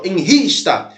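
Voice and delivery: "Enrista" with "ris" picked out; stress on RIS. Shown as a demonstration. Teacher showing where the count must stop, stress on "ris" in "Enrista". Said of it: "na última sílaba mais forte".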